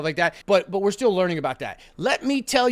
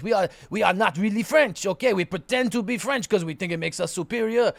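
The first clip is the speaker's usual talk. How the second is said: mock Quebec French voice. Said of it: "Quebec French where they".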